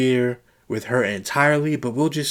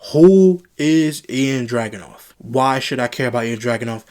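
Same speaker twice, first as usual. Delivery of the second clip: exasperated; 5 dB louder than usual. Real, not acted. Ranting reviewer demanding.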